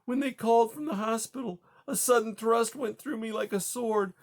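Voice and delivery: high, strained grieving account; distraught. Acted. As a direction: relive it, barely holding together. Widow recounting husband's death.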